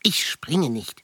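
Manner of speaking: whisper. Acted. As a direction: whisper it slowly. Assuring he won't jump.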